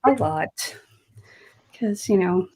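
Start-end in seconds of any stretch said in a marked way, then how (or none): 0.1-0.8 talking through hiccups; hiccupping between words. Real, not acted. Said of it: "Now I've got the hiccups".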